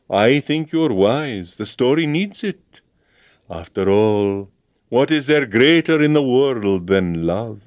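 slow, high, dreamy gush about love; sentimental agent. A narrator's reading. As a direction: melt over the word love.

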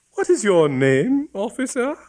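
high, sweet genteel lady voice; gracious lady. Acted. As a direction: ask with gracious interest. Bishop's wife asks.

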